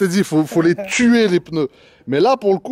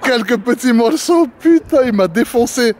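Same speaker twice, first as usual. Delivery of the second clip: laughing; 2 semitones higher than usual. Real, not acted. Laughing while repeating friend.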